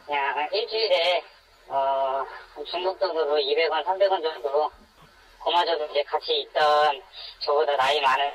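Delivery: anonymized voice filter for protection; voice-altered. Real, not acted. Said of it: "음성 변조로 진행되는".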